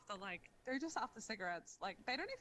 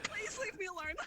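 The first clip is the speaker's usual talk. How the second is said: mock pleading; 10 semitones higher than usual. Pleading with the imagined bogan.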